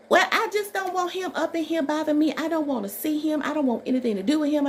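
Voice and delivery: high, loud, fast irritated mother; a new mother refusing to see the father; upset mother. Retold or imitated. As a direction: rattle it off like an annoyed new mom. Mother quoted, higher voice.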